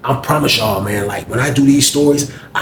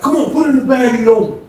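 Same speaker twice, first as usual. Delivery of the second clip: aggressive demand; 9 semitones higher, faster than usual. Retold or imitated. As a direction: bark it like a bully collecting. Fred shaking down inmates.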